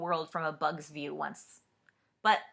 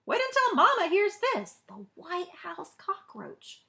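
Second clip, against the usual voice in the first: much higher, awed and excited; thrilled bug; 11 semitones higher than usual. Acted. Wilkie imagines telling Mama, high and awed. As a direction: gasp it in wonder.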